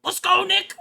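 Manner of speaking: high, loud cheer; rally him out the door; eager girl sidekick. Acted. Sidekick urging Nick to go, high loud cheer.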